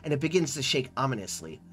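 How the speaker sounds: storyteller reading the scene aloud; story narration. A narrator's reading. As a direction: narrate the adventure to the viewers. Reads game narration.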